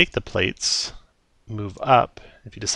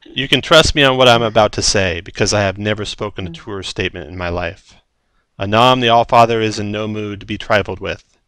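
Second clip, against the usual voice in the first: contemplative and commanding, lightly voiced giant; booming storm giant; 6 dB louder than usual. Storm giant warns looters about the Allfather, mildly booming. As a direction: bursts of loud authority, easing at phrase ends. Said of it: "In a booming voice".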